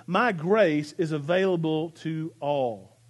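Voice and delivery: "my grace is available to all" drawn out slowly, each word given weight; slow and deliberate. Shown as a demonstration. Pastor asking the congregation to listen, slowly drawn out. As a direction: linger on every word of the promise. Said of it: "listen to this".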